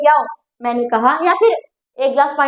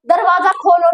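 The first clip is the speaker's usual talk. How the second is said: commanding order; 3 semitones higher than usual. Shown as a demonstration. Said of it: "मैं यहाँ पर आदेश दे रही हूँ".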